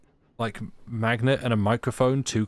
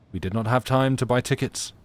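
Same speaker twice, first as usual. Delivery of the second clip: put-on French accent; 3 semitones higher, 5 dB louder than usual. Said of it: "in my accent".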